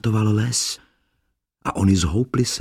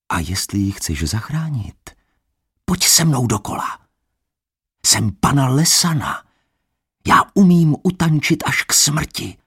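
higher, louder enticing voice; lightly voiced forest maiden; 7 semitones higher, 4 dB louder than usual. Lesana tempting Adam to dance to death. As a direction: lure him into the dance.

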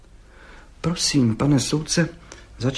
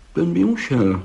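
higher-pitched connoisseur's verdict; expert appraisal; 7 semitones higher, 4 dB louder than usual. A narrator's reading. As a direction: judge it like a seasoned expert. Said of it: "mínil pan Hejda znalecky". (znalecky, vyšším hlasem)

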